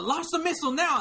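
frantic high shout; villain bellowing the launch order; Kent Mansley yelling. Retold or imitated. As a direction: scream the order in a panic. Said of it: "read it in character of all the".

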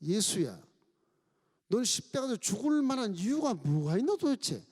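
lightly voiced jeering robber, mocking; mocking thief. Preacher voicing the left thief mocking Jesus, jeering. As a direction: sneer at Jesus like a scornful criminal. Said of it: "좌편 강도가 예수님을 보고 조롱을 하는 겁니다".

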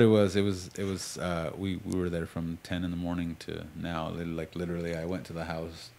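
talking while chewing gum; words around a wad of gum. Real, not acted. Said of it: "I'm sorry, I have gum".

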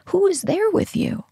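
high, breathless whisper. Real, not acted. Telling viewers what counts in love, whispered. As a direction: lean in and whisper the question. Stressing loyalty in hard times.

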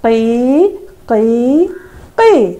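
put-on chirping cry of a baby bird. Shown as a demonstration. Teacher shows class how the chick cried, bird cry. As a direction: mimic a chick's cry, three short calls. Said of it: "അപ്പൊ എങ്ങനെയാണ് പക്ഷിക്കുഞ്ഞ് കരഞ്ഞത്?".

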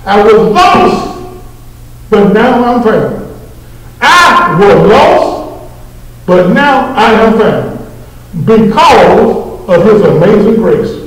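drawn-out, slow hymn phrasing; slow preached hymn words. Acted. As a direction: stretch each word like testimony. Preaching hymn lyric slowly.

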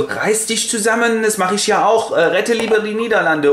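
high, prim put-on voice; scolding queen. Queen scolds the prince at her feet, high and prim. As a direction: tell him off like a fussy queen.

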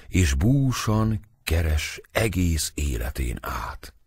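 slow, eerie soothsayer voice fading to a whisper; prophesying fortune teller. Acted. Fortune teller to the boy, eerie prophecy fading to a whisper. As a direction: foretell his fate like a gypsy seer.

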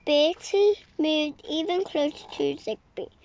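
breathy whispered narration; whispered storytelling. Acted. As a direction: hush it like a secret in the dark. Hushed scary part of story.

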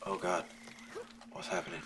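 hushed, frightened whisper; terrified horror victim. Real, not acted. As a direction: whisper in dread. Spider attack, hushed fear.

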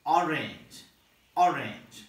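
orange with a short pure O like Sinhala; Sinhala O demo. Shown as a demonstration. Teacher modelling the O in orange. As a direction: say orange with a clipped rounded O. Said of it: "You say".

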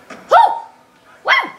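high loud cheer; excited whoop. Real, not acted. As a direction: let out a big whoop. Cheering in game.

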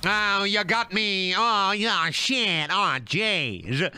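high, drawn-out goofy groaning voice; mock dismay. Streamer just got beaten in the game, mock dismay. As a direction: stretch out the hammed-up defeat.

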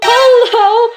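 high, drawn-out answering call; game call. Pretend. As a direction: sing back the answer high and playfully.

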